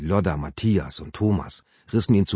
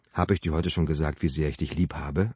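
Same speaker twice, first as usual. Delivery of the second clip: freundlich; 2 semitones lower than usual. Acted. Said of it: "antwortete Jupp freundlich".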